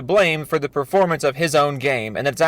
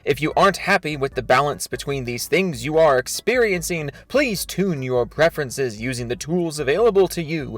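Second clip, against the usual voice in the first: overwrought, mock-solemn reading of a statement; dramatic reading. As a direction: read it like a grand, self-important speech. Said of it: "This is a dramatic reading of his thread".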